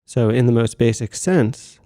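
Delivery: measured meditation-guide voice with long pauses; composed meditation instruction, pausing between phrases; guided meditation. Acted. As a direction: settle listeners into practice, phrase by phrase. Begins leading the guided meditation.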